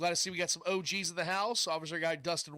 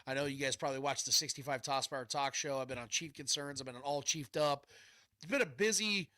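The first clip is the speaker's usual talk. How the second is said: blocked nose, nasal voice; stuffy nose. Real, not acted. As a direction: talk through a stuffed-up nose. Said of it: "yes, I'm a little stuffed up still".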